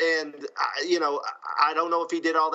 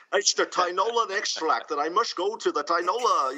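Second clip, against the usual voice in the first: higher-pitched bad Scottish accent; fake Sean Connery; 5 semitones higher than usual. Co-host quoting his long script line, fake Scottish accent. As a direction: do a hammy fake Scottish brogue. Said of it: "that fake Sean Connery accent".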